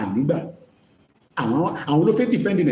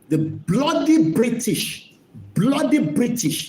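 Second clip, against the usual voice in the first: slow, high, drawn-out mocking bloody; mocking bloody British; 6 semitones higher, slower than usual. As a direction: sneer out each bloody slowly. Mocking the colonial phrase.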